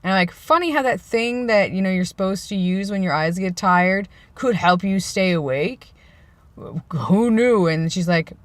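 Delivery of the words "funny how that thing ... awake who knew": lightly sarcastic feigned surprise. Retold or imitated. Husband needling his wife about her contacts, sarcastic. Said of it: "with my sarcasm".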